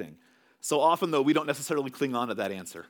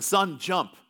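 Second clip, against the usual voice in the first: mild mock yell, raised pitch; drawn-out, half-raised fatherly call; retold urgent call; 4 semitones higher, 3 dB louder, slower than usual. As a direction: call out to your son as a retelling. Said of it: "he's sailing to his son".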